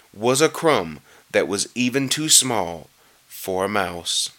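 measured rhyming read with drawn-out key words; storybook narration. A narrator's reading. Reader telling how the Grinch stole presents, storybook narration. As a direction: read the verse aloud, lingering on the stresses.

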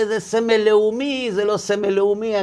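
high, mocking imitation of a debater; mock objection. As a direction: toss it off like a smug critic. Mimicking arguing secular critics. (חיקוי לועג של מתווכח)

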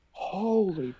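strained hushed exclamation; holding back a shout. Retold or imitated. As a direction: swallow the yell, keep it down. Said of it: "I'm trying not to scream".

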